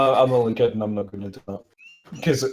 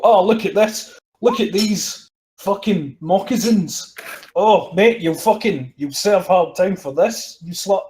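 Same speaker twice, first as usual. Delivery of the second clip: higher, hammed-up scolding; mock interrogation; 4 semitones higher, slower than usual. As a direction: play at busting a suspect. Acts out interrogating suspect at his house.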